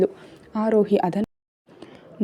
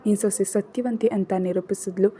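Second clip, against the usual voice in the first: much softer, grieving narration; hushed sorrow; 6 dB quieter than usual. A narrator's reading. Son confessing guilt to mother, softly grieving. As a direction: let the guilt sink in quietly.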